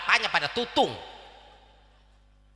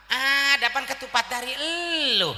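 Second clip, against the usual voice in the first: mock scolding; 3 semitones higher than usual. Mother scolds children asking for food.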